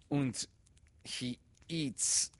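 put-on high child voice, owning up; reluctant admission. A narrator's reading. Boy owning up to teacher, high and reluctant. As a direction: admit it grudgingly, like a small boy. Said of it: "his protector was forced to admit".

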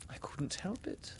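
high, very soft defence; soft excuse. A narrator's reading. Wendy answers Peter's accusation, small and apologetic.

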